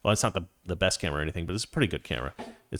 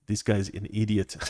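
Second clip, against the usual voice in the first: a rough attempt at a Kenyan accent; hint of a bad Kenyan accent. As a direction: try a Kenyan accent, loosely done. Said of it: "I can't do a Kenyan accent".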